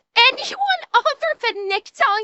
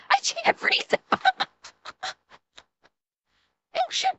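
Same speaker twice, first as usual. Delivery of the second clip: high, breathless real laughter; laughing so hard you can't breathe; crying with laughter; 8 semitones higher than usual. Real, not acted. Co-host losing it over the torpedo story, breathless laughter. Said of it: "I'm crying".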